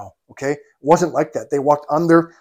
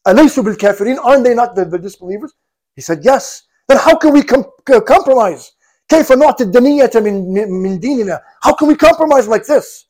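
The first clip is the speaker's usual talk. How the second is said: harsh protest; 4 semitones higher than usual. Retold or imitated. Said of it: "was very harsh".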